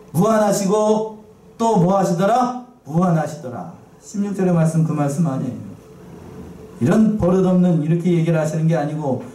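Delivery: normal talking voice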